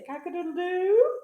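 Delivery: high, loud crow; rooster crow. A narrator's reading. Reader shows the rooster, high playful crow. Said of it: "Here's the rooster say".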